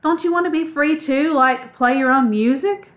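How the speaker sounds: pressing. A narrator's reading. Ragweed pressing Clutch to stop running and be free, urgent. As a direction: lean on her with each question. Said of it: "Ragweed pressed".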